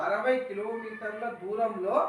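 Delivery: slow and deliberate, word by word; slow model reading. Shown as a demonstration. Teacher to pupils, slow dictation-style reading. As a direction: give the pupils time to repeat. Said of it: "sir ఎలా పలుకుతున్నాడు".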